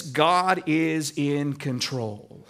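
slow and low, each word weighed; slow deliberate "God is in control"; slow, settled affirmation. Shown as a demonstration. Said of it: "Sometimes we say it like this".

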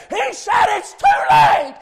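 impassioned shout, short of a scream; shouted retelling. Retold or imitated. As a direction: preach the dying woman's answer loudly. Dying aunt's answer, preached loudly.

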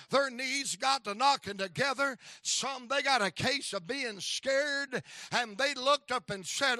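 ordinary delivery

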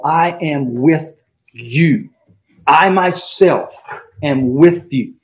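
slow, with a heavy stress on "I" and "I myself"; "I am with you" with a slow, weighty "I"; emphatic I. Shown as a demonstration. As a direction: drive home "I myself" word by word. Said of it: "It's an emphatic statement from his Lord".

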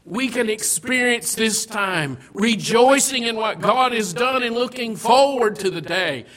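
loud, rising sermon build; fervent pulpit delivery; preaching. Acted. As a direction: preach it out to the congregation. Preaching at full force.

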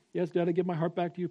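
put-on soft, quick child's reply; a hint of an obliging son; lightly voiced son. Son gives his heart back to dad, lightly voiced and soft. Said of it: "Rush, I yelled at you".

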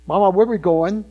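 lightly voiced little child asking mama; a hint of a curious small child; inquisitive tot. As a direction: ask like a little kid, slightly mock. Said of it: "like a tot at the time".

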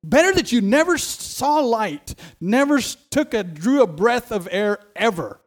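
lightly voiced Jesus, pressing; preacher urgently quoting Jesus; Jesus quoted. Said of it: "he says".

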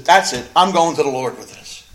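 loud, decisive acted quote; determined. Broken Hannah decides to go to the Lord, loud and determined. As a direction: hit it hard, mind made up. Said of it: "She got up determined".

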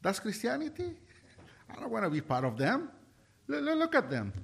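rising, incredulous mock outrage; acting out a shocked young man seeing Christians fight; shocked disbelief. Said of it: "And I'm like".

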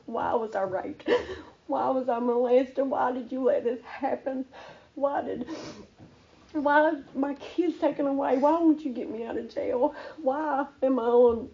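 imitating an anguished cry to God, no real screaming; retold crying plea. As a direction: plead why, upset but not yelling. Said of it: "I was crying and screaming".

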